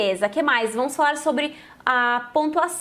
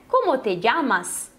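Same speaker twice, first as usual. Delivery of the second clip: slow careful Spanish; slower than usual. Shown as a demonstration. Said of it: "vai prestando atenção na pronúncia".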